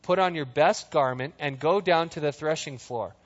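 measured, even Bible reading; calm scripture read. Acted. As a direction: read the passage steadily to the congregation. Reads scripture aloud.

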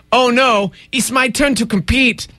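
badly faked Russian accent; mock Russian accent. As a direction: play the athlete in a joke Russian accent. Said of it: "that's my other Russian accent".

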